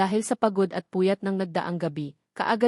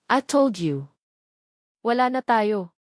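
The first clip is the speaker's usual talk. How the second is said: serious. Acted. Kenzo telling his ex it's over, serious and firm. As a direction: shut her down, no room for argument. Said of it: "Seryosong bigkas ni Kenzo".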